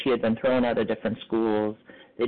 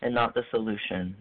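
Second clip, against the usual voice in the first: lightly imitated Southern accent; a friend's gentle advice with a hint of Southern accent; 4 semitones higher than usual. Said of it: "she said in her beautiful Southern accent".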